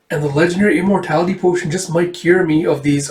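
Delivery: lightly voiced girl; slightly lifted child's tone; a hint of a young girl's voice; Erica. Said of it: "sorry, and he goes".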